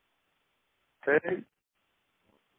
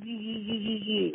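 mocking giggle imitation; 4 semitones higher, 7 dB quieter than usual. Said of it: "You already laughed at me three times".

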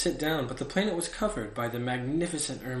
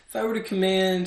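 grand king; 6 semitones higher, 7 dB louder than usual. Acted. King's grand pronouncement.

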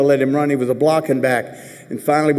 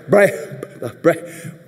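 halting, stammered name; imitating a stutter. Coach stuttering on the quarterback's name, halting. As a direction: mimic the coach stuck on the name. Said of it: "b-, Brad".

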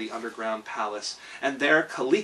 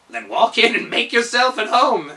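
Kaliko steward; 7 semitones higher, 7 dB louder than usual. Acted. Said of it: "answered Kaliko".

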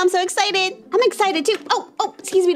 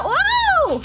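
surprised whoa. Acted. Sudden surprise at waterfall.

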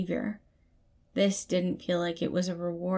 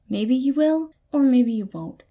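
loud, higher, heated retort; 6 semitones higher, 7 dB louder than usual. A narrator's reading. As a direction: push back hard and loud. Patton's heated outburst.

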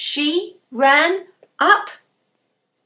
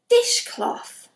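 high whispered call; reindeer voice; 10 semitones higher than usual. A narrator's reading. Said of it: "said the reindeer".

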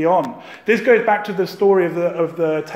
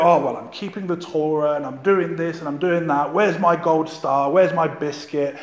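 mock self-righteous; 2 semitones lower than usual. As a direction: mimic the self-righteous believer fishing for a reward. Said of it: "We go".

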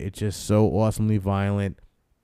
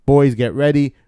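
raised, higher voice giving the order to fire; rally the troops with a punchy command; lightly acted squad leader's command; barking orders; 4 semitones higher, 5 dB louder than usual. Acting out Butcher ordering troops to fire.

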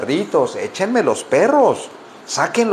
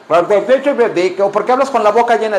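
higher-pitched, quick acted quote; mock exchange; 5 semitones higher, faster than usual. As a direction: play a hurried scolding exchange. Imagined exchange with scolding mother.

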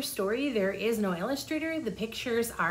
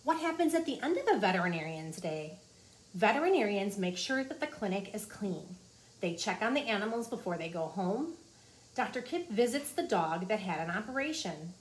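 put-on reading to children. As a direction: clear storybook read-aloud. Reading the book aloud.

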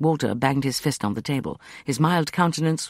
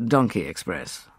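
slow, lower correction; dry correction; 6 semitones lower than usual. A narrator's reading. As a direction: correct him dryly, slowly. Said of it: "Sethos corrected".

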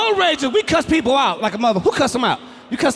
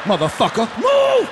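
road rage rant. Retold or imitated. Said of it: "You can be black".

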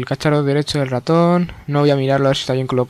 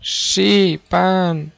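excited cheer; 6 semitones higher than usual. Real, not acted. Got bread.

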